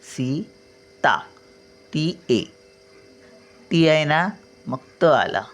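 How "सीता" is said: सीता drawn out very slowly with a long ई; teacher slowly sounding सीता for spelling; slow careful naming. Shown as a demonstration. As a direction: stretch सीता to show the long vowel. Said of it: "मग दुसरी वेलांटी".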